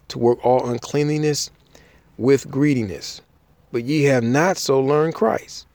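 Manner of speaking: formal Bible read-aloud; scripture reading. Acted. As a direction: read the passage out to a congregation, phrase by phrase. Reads scripture aloud to listeners.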